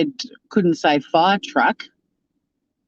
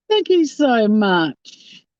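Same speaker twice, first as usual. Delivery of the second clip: heartfelt thanks; 5 semitones higher, much slower than usual. Real, not acted. Thanking a donor.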